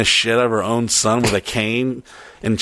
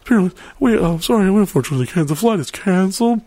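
lightly mocked apologetic announcer; gate announcement; 6 semitones higher, faster than usual. Gate agent breaking cancellation news to passengers, mock halting announcement. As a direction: imitate a halting airline agent. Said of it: "I tried until I heard".

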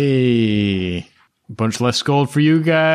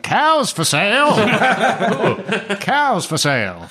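laughing; 9 semitones higher than usual. Acted. GM jokes as merchant.

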